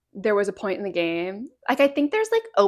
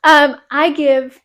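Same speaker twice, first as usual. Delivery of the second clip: fighting game announcer; 4 semitones higher, 8 dB louder, much slower than usual. Pretend. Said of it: "a fun announcer voice".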